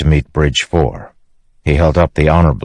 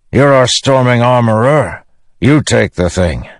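higher, curt barked order; 8 semitones higher than usual. A narrator's reading. Teft orders the armorer to take it, barking. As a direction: bark the job at a subordinate. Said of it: "he barked".

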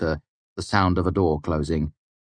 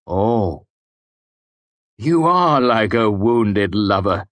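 amused; 4 semitones higher, 6 dB louder, much slower than usual. Acted. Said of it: "Kvothe said, amused".

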